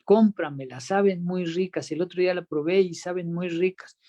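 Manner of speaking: lightly voiced pleading kid; pleading child. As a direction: wheedle like a little boy wanting a soda. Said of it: "y me dijo".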